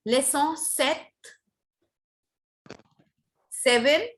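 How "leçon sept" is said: slow LEÇON SEPT, nasal ending then "set"; correct pronunciation. Shown as a demonstration. Teacher modelling the corrected chapter number, slow LEÇON SEPT. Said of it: "just leçon".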